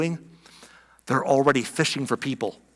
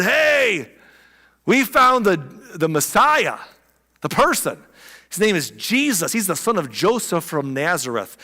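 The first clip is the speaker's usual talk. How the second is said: mock excited. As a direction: burst in with the news. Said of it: "runs up all hyper and excited".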